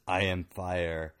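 slow, menacing dragon voice; menacing slow dragon whisper. Acted. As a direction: growl it slowly like a dragon. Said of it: "and she whispers".

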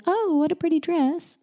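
high-pitched, patronizing coo. Acted. Adult admiring a little girl's dress, patronizing. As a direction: coo it condescendingly, as to a small child. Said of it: "I said that in a really patronizing tone of voice".

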